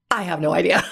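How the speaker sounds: nervous laugh through the words; giggling admission of having no idea. Retold or imitated. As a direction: laugh at your own cluelessness. Inner panic at client's question.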